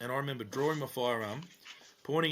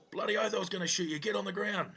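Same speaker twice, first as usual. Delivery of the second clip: retold command; 8 semitones higher than usual. Cop yelling at knife attacker.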